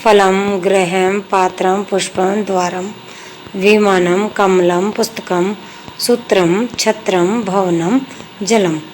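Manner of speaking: each Sanskrit word said clearly and separately; word list pronunciation. Shown as a demonstration. Teacher modelling Sanskrit words for students, clear and separate. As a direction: pronounce every word cleanly for the class. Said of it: "जैसे".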